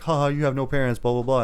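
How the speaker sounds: retold playground jeer; mock taunting. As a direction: imitate kids picking on someone. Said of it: "these kids picking on him".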